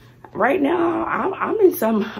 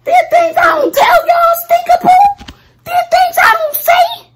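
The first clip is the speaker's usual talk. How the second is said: high exasperated outcry; 6 dB louder than usual. Real, not acted. Venting about money strain.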